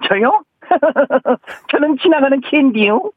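high, silly movie-scene voice; Yoo Hae-jin impression. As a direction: squeak it out like a bashful passerby. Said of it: "그 영화 한 장면인데요".

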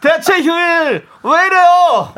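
slow, high, foreigner's Korean; drawn-out foreigner accent. Pretend. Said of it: "저 외국인 발음으로 하시는 거예요?".

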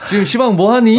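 put-on laughing, high 시방 in Jeolla accent; mock Jeolla with Seoul ni. Joking to cohost, Jeolla accent with laugh. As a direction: Jeolla words forced onto a Seoul ending. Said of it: "겁나게 바쁘니".

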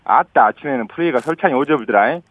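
smooth Jeolla dialect in one flowing phrase; 프레이가 flowing straight into 설찬이, Jeolla tune; 이어서 전라도 사투리로; Jeolla dialect, run together. Shown as a demonstration. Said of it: "한번 좀 이어서 할게요".

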